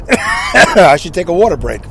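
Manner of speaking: rough voice after coughing. Real, not acted. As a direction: talk right after a cough.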